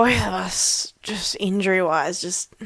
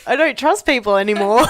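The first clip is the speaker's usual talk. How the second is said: laughing; 4 semitones higher, 4 dB louder than usual. Real, not acted. Joking about lost confidence.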